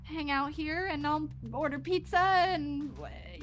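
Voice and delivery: a mother holding it together, scared; anxious mother. Acted.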